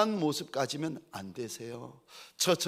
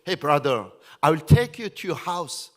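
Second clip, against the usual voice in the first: loud, very slow English to a foreigner; 6 dB louder, much slower than usual. Retold or imitated. Pastor speaking loud slow English to a foreign guest. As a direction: spell it out loudly and slowly. Pastor recalls offering a ride.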